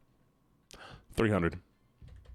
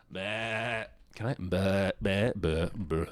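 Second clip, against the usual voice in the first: sheep bleat; 4 semitones lower, much slower than usual. Shown as a demonstration. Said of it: "What do sheeps actually sound like".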